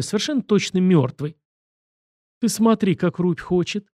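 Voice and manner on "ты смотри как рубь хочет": higher-pitched mock admiration; lightly jeering, as if impressed; mocking delight. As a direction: coo at them with a touch of derision. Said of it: "издевательски умилился Красиков".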